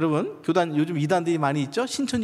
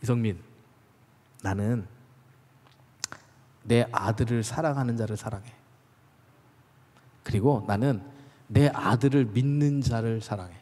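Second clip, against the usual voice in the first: God's gentle answer; 7 semitones lower than usual. Retold or imitated. God answers the preacher's prayer, lower and tender. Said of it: "하나님의 대답이 제게 오는데 이렇게 오는 거죠".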